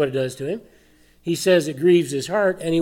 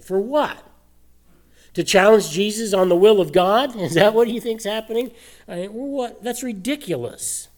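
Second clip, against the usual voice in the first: pitched higher, mock disbelief rising; scoffing preacher, higher and incredulous; 6 semitones higher than usual. Real, not acted. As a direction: sound baffled at the idea. Preacher mocking a commentator's reading.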